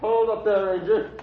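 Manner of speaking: put-on old hermit warning off an approaching stranger; warning call. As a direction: call out sharply to keep him back. Hermit warns Ranger off at gunpoint.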